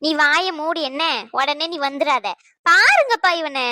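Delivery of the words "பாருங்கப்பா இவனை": indignant complaint. Acted.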